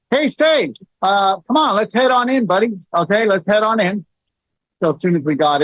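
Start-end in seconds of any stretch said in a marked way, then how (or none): 0.1-4.0 higher, easy-going, no alarm in the voice; cheerful and casual, hiding the panic; calm reassurance to an injured son. Retold or imitated. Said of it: "and I go".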